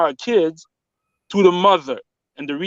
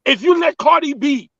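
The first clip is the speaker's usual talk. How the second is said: raised pitch, fired-up insistence; heated, emotional; 5 semitones higher than usual. Real, not acted. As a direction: push the point hard, getting worked up. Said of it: "you seem a bit emotional".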